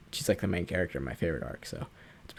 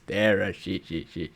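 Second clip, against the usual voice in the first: Saul laugh. Retold or imitated. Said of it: "He goes".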